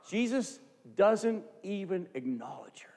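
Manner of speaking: hushed, unvoiced, slow aside; whispered aside. Real, not acted. Preacher to congregation, dramatic hushed whisper. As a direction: lean in and whisper it. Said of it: "whispered aside".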